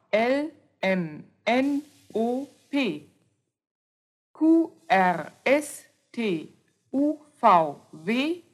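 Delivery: letters A to Z named one by one with pauses; alphabet recited. Shown as a demonstration. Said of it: "Das vollständige Alphabet ist". (Alphabet langsam aufgesagt)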